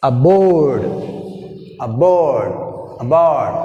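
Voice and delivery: "Aboard" with a strong, long "board"; short "A", then swell on "board" in "Aboard"; stress on second syllable. Shown as a demonstration. Teacher drilling "Aboard", second syllable stressed. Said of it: "second syllable".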